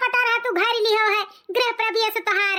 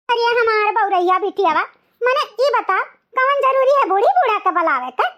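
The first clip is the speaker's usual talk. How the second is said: scolding. Acted. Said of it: "क्यों ऐसे डांट रही हो".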